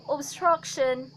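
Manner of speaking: slow RP "Obstruction"; RP accent. Shown as a demonstration. Teacher giving learners another example, slow RP accent. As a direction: say Obstruction slowly in posh British RP. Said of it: "Well, in R P".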